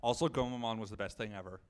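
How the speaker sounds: low, soft deadpan sarcasm; mock praise, said low and under the breath; dry sarcastic aside. Real, not acted. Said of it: "Notice my sarcasm".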